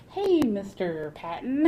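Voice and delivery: drawn-out, slow hail; mock friendly heads-up, dragged out; retold calling out. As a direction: call over to him, stretching the words. Teller calls out to Patton.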